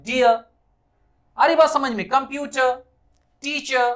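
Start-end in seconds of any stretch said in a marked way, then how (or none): 0.0-0.4 डियर with the final a drawn out and the r dropped; डियर, long a and no r sound; stretched a in dear. Shown as a demonstration. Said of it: "इस अ को ऐसा खींचिए".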